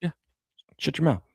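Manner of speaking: put-on high, taunting kid voice; bratty kid brothers. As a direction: tease her like a little brother would.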